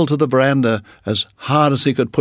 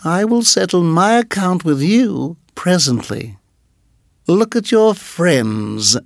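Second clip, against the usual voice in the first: menacing; 5 semitones higher than usual. Acted. Nagaina voiced.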